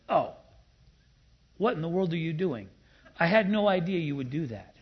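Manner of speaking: lightly acted startled disbelief; mock surprise. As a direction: play at being caught off guard.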